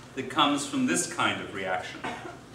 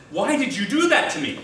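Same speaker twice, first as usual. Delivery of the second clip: higher-pitched mock hurt question; bewildered protest; 5 semitones higher than usual. Knocked-over man to his attacker in a joke, mock bewildered protest. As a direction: ask it as a baffled victim.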